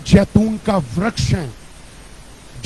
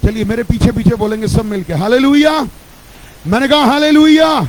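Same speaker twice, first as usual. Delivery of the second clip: preaching call. Real, not acted. Leads congregation in call.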